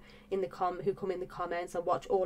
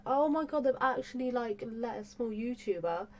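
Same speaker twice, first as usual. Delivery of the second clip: excited squeal; 5 semitones higher than usual. Retold or imitated.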